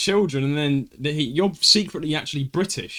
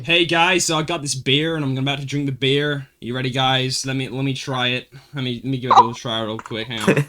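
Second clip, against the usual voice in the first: lower, chatty American vlogger; put-on American accent; 5 semitones lower than usual. Shown as a demonstration. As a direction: talk to viewers in an American accent. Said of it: "I sound like a gay Canadian when I'm doing American".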